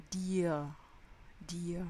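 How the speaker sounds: dir with a soft vocalic R, no throat scrape. Shown as a demonstration. Teacher modelling a soft German R in dir. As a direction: relax the R at the end of dir. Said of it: "un R après une voyelle est assez doux".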